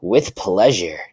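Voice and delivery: said with a smile; a touch of relish; smiling. A narrator's reading. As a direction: gleefully accept the order, lightly acted. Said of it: "Nora then smiles and says".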